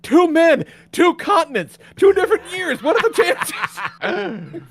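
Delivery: high, loud trailer announcer, laughing through it; dramatic movie trailer voice. Retold or imitated. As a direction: ham it up like an epic movie narrator. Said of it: "And Kelly's like".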